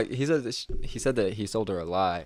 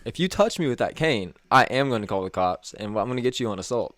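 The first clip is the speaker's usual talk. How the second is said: firm warning; 2 semitones higher, 5 dB louder than usual. Retold or imitated. Boss threatening over cane.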